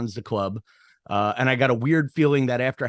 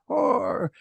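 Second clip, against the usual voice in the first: retold drunk yell; 12 semitones higher than usual. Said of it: "he just yells out".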